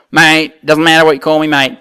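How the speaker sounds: lightly put-on Aussie accent; Australian bloke. Aussie guest answering the host about the war, mild Australian accent. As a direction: play the Aussie mate, easygoing. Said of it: "Australian, what are we calling you now?".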